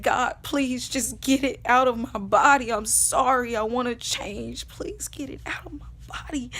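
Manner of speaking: loud plea fading to a hush; pleading prayer. Retold or imitated. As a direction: beg God, then let the voice drop away. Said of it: "I'm saying all of this".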